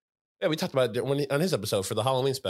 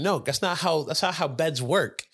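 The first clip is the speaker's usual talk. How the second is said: higher, slow exasperated retort; exasperated protest; 5 semitones higher than usual. Retold or imitated. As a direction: spell out the obvious, a little fed up. Arguing with grandma, retold.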